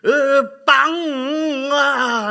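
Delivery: high, loud scolding yell. Retold or imitated. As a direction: yell to stop the child. Father yelling at his daughter. (아이를 혼내는 아버지, 높고 큰 고함)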